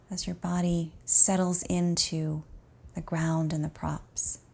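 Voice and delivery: calm, unhurried meditation voice with long pauses; guided relaxation. Acted. Teacher guiding an exhausted student to notice the breath, calm guided relaxation. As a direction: ease the listener gently into rest.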